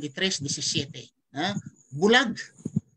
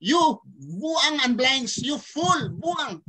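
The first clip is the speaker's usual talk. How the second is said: angry rebuke; 4 semitones higher, much slower than usual. Acted. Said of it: "yun siya".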